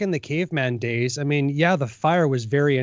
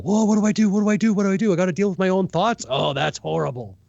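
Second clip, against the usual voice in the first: mock panic; 4 semitones higher than usual. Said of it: "people get that mental issue".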